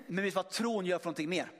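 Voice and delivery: normal talking voice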